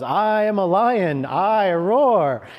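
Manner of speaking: loud, high, energetic proclamation; rousing affirmation. Retold or imitated. First thought on waking at five, loud rousing affirmation. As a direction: declare it boldly to shake off sleepiness.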